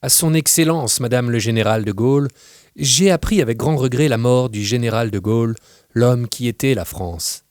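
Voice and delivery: formal condolence letter-writer. Acted. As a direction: offer solemn condolences with a touch of ceremony. Reads a formal condolence letter aloud. (lettre de condoléances légèrement jouée, ton cérémonieux)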